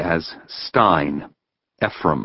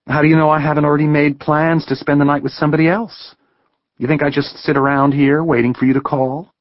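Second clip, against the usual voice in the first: higher voice, defiant and quick; young woman, indignant; 8 semitones higher than usual. A narrator's reading. Heather challenging Ben's assumptions, higher and defiant. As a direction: push back hard at him.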